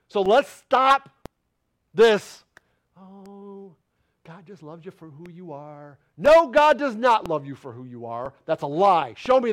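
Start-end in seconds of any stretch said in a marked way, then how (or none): 3.0-6.0 hushed, much softer mock voice; mocking quote. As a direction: echo the easy lie dismissively. Mocking a popular belief.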